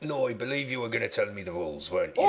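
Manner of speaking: a country contestant greeting the host; West Country accent. Pretend. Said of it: "I'll talk like a West Country man then".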